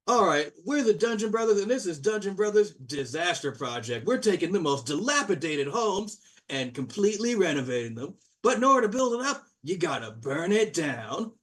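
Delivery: high, bright-pitched TV presenter pitch; lightly voiced showman dwarves; TV host dwarf. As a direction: hype up the renovation show. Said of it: "And they go".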